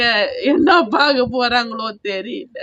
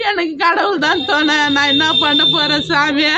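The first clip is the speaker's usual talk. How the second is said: tearful plea; 3 semitones higher than usual. Real, not acted. Robbed woman pleading to God.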